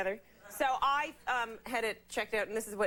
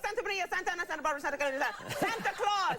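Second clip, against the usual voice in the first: passionate lover; 8 semitones higher than usual. Retold or imitated. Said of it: "Yeah, like".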